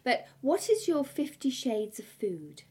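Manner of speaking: slow, teasing and suggestive; seductive. Acted. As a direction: draw it out seductively. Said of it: "I always try to say this in a slightly seductive way".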